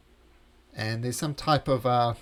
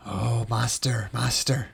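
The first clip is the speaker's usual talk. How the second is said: cowering servant voice; slower than usual. Acted.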